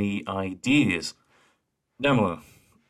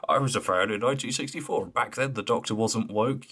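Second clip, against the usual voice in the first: mock old fan; 3 semitones higher than usual. Host imitating long-time fans on Twitter, light mocking voice. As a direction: lightly mimic a boastful old-timer. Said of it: "you get those people on Twitter".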